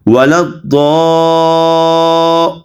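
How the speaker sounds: ولا الضا- with a hard heavy d and very long 'aa'; firm stretched dad. Shown as a demonstration. Teacher shows the order of reading, ولا الضا- held long. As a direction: press the d in ولا الضا- and sustain the vowel. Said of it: "ضاد کو سختی کے ساتھ پڑھیں گے".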